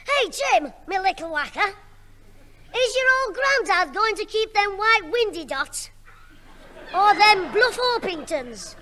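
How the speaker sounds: lightly mimicking Mister Whittle's Liverpool accent; a mild Scouse put-on, mocking Mister Whittle. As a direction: Jim half-heartedly imitates the neighbour's Scouse. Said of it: "look at Mister Whittle's accent".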